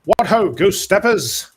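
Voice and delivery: booming cheerful hero shout; hearty hero greeting. Acted. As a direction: call out like a jolly pulp hero. Character greets enemy soldiers.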